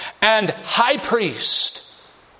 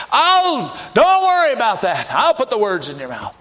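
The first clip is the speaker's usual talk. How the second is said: voice of God; 5 semitones higher, 3 dB louder than usual. Acted. God reassures Moses.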